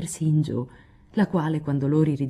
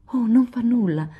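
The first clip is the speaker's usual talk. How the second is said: laughing; 7 semitones higher, 4 dB louder than usual. A narrator's reading. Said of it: "rise Lori".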